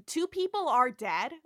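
lightly voiced pointed objection; Chapel. Nurse answers Andrea about the captain, restrained objection. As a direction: state it pointedly without raising pitch. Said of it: "Chapel's like".

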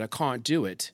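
retold childhood British accent; long British "ah" in can't. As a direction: put on a touch of your old British accent. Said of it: "I had the accent".

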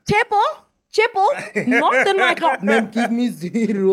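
laughing mock plea. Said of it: "It sounds like".

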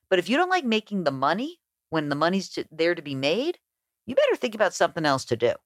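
a hint of a dad laying down the law; lecturing dad. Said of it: "He goes".

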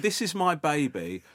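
slow, mock-proud presentation; self-important boasting. Proud mother showing her baby to a comedian, mock-boastful. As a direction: say it slowly like a unique achievement, imitating her. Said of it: "like she was the only person that ever achieved that".

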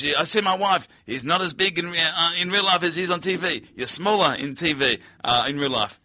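lightly voiced Asian-accented driver; imitated Asian accent. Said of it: "Oh, I do the accent continually".

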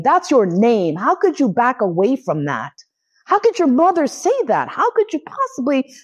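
high, rising, incredulous retold outburst; freaking out. To mom who gave up her name, a high freaked-out retold rant. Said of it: "as I'm freaking out".

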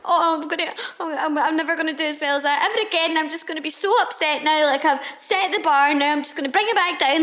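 high, fast, laughing panic; fast mock panic with laughter. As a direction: gabble it out in a frantic laughing spiral. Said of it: "I just get in this frenzy and panic".

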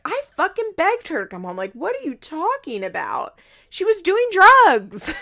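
high, loud, slowing to a shout; mock yell. Grandmother yells at the boyfriend about her daughter, building loud. Barbara yelling, retold.

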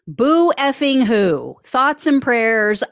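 slow, loud, mocking sympathy; sarcastic mock sympathy. Real, not acted. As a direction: drag it out with fake pity.

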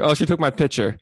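"pitcher" said for picture, no k; imitated mispronunciation. Co-host mimicking the host in a sentence, imitated mispronunciation of "pitcher". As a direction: drop the k so it comes out "pitcher". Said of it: "You say pitcher".

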